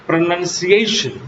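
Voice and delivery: teacher repeating "Pronunciation" with every syllable clear; exact pronunciation. Shown as a demonstration. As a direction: model the word "Pronunciation" clearly. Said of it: "The exact pronunciation is".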